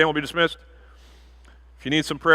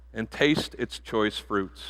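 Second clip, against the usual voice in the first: hushed; 4 semitones lower, 7 dB quieter, much slower than usual. Acted. Verse of consummation.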